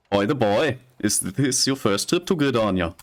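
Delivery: light Scottish lilt on the NPC's lines; Scottish accent. Acted. Reading an NPC's greeting to the player in a Scottish accent. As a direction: read the trader's lines in a Scottish brogue. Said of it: "still speaking with a Scottish accent".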